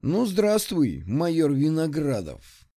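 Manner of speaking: hissed menace. Acted. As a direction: hiss it with cold malice. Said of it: "прошипел Мишка".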